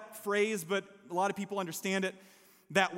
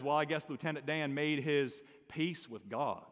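Forrest Gump impression; 6 semitones lower, 5 dB quieter than usual. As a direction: do a modest Southern Alabama Forrest Gump. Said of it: "I'm gonna do this the best I can ... not from Alabama".

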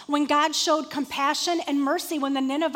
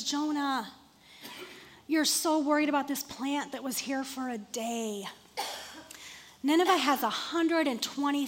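softer, gentle reasoning; patient God; 4 dB quieter than usual. Retold or imitated. God patiently reasoning with angry Jonah, softly. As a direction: gently reason with a sulking friend.

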